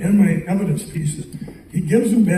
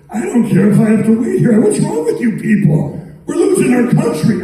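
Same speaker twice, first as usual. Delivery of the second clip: high-pitched, mild mock yell; retold yelling; 5 semitones higher than usual. Retelling his outburst at the West Wing gal, mild yell. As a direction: protest indignantly, pitched up but not shouted. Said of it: "And so I yell at her".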